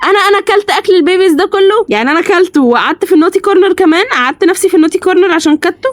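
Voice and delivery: high-pitched playful outrage; mock indignation. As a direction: protest the accusation in a high mock huff. Mock indignation at being accused.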